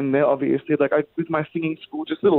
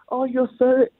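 lightly voiced gushing admirer, higher pitch; imitated praise; 5 semitones higher than usual. Retelling people praising his singing.

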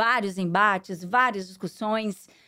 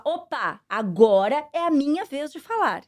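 asserting herself; 3 semitones higher, 4 dB louder than usual. Retold or imitated.

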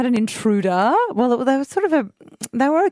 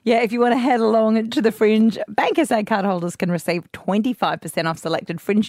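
live ad read. Acted. Live sponsor read on air.

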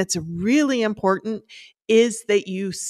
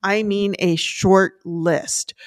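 slow, leaning hard on "short"; slow down and punch "short" in "I mean a short list"; stress on short; slower than usual. Real, not acted. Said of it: "And when I say short".

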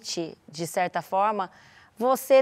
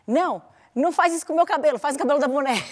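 higher, gentle mom suggestion; redirecting mom; 4 semitones higher, faster than usual. Retold or imitated. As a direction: offer the doll instead, a touch higher. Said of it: "a substituir". (mãe redirecionando a filha)

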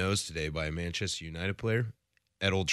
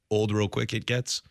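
Yoda speak. Retold or imitated. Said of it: "I do know a bit of Yoda".

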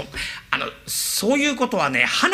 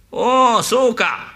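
father; 6 semitones higher, 5 dB louder, much slower than usual. Acted. Father replies.

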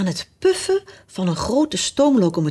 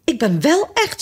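high-pitched upset insistence; protest, on the verge of crying; tearful protest; 8 semitones higher than usual. A narrator's reading. Alice insists she is real, mildly tearful. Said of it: "zei Alice en begon te huilen".

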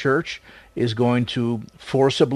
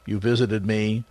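measured, slightly low reflective delivery with long pauses; solemn scripture recitation; 3 semitones lower than usual. Real, not acted. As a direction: recite it reverently, phrase by phrase. Solemnly paraphrases scripture before the break.

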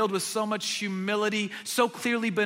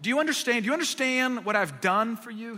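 teacher's probing question; 3 semitones higher than usual. Retold or imitated. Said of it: "Teachable moment".

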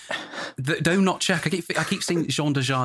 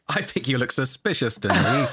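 mocking soldier.

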